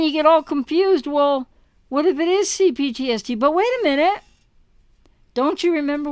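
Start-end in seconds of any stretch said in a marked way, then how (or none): none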